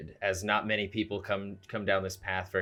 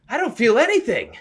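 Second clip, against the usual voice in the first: loud, high cry of wonder; exultant shout; 12 dB louder than usual. Acted. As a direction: shout it in amazed delight. Character rolling in snow exults.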